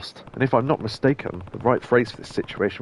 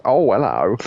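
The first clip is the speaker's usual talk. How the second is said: Kenneth Williams; 5 dB louder than usual. Retold or imitated. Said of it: "went into Kenneth Williams".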